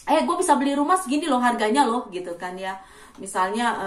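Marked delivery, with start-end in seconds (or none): 0.1-2.1 slightly raised, boastful mock voice; show-off bragging. Indonesian showing off a house price, mock bragging. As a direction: lightly imitate someone bragging. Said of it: "sok pamer tuh".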